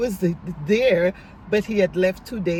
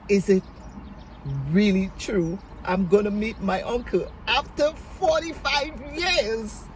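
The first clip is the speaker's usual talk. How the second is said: retold bubbling anticipation; 4 semitones higher than usual. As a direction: let the excitement bubble up toward the end. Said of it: "everything in me is just bubbling up".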